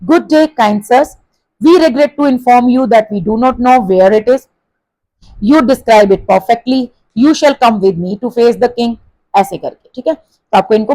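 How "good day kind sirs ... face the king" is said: slow reading, each sentence falling. Shown as a demonstration. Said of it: "इन्हीं sentences को बोल के देखना है".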